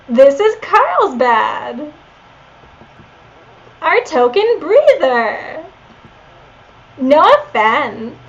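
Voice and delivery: put-on slow Valley Girl uptalk; lazy Valley Girl drawl. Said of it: "I did a Valley Girl voice for Leon".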